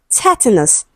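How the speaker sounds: "tetanus" with strong TET, weak ending; stress on first syllable. Shown as a demonstration. Teacher reads the option to students, "tetanus" stressed on TET. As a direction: hit TET at the start of "tetanus". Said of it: "stressed on the first syllable".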